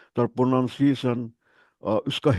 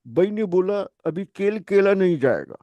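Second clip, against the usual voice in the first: "বাই" and "কেল কেলা" with a plain unaspirated k and b, Pashtun-style; a light Pashtun Urdu, slightly higher, kh turned to k; mock Pashtun speaker dropping the aspiration in "কেল কেলা"; Pashtun accent; 4 semitones higher than usual. Shown as a demonstration. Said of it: "পশতুরা বলে, ওরা বলবে".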